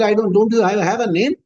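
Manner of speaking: lightly acted driver's indignation; mildly annoyed. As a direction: push back at a rude summons. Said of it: "The driver gets annoyed".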